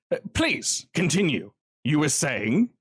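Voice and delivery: lightly voiced smug villain; Kincaid hushing. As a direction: hush him like a bored sadist.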